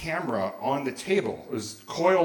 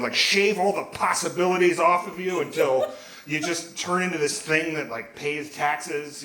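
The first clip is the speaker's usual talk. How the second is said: put-on higher-pitched teenage ranting, easing off late; mock-seethe at the whole adult world; seething; 4 semitones higher, 3 dB louder than usual. Teenager sulking in his room about adults, seething. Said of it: "just seething".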